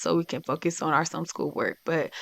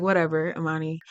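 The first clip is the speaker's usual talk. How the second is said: mild brush-off; 2 semitones lower, faster than usual. Acted. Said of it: "brush her off".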